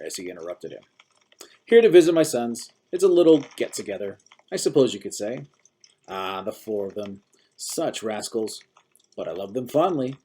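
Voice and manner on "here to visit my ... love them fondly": put-on busybody old man. A narrator's reading. Old-timer talks of his sons.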